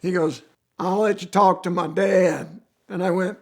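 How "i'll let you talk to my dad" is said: imitated Southern accent on the phone; strong Southern accent. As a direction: answer like a Southerner, putting on the accent. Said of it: "they got strong Southern accent".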